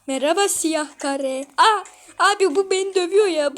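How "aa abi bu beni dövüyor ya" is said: high, fast panicked cry. Real, not acted. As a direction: yelp it out in a panic. Cube attacks the player.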